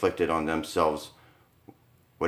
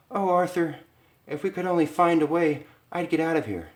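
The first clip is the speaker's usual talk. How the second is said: much higher, desperate wife; pleading Lisa; 9 semitones higher than usual. Acted. Wife to Arthur in the cell, much higher desperate plea. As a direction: beg to be out of here.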